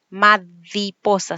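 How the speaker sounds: Mariposa said slowly as madiposa, with a d for the r; child's dentalized r. Shown as a demonstration. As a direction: say Mariposa slowly with a d sound in place of the r. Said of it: "mariposa en vez de mariposa".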